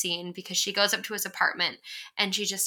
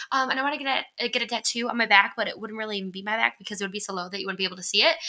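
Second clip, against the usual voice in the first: imitating a fast rambling teen; 2 semitones higher, faster than usual. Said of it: "she talks so fast".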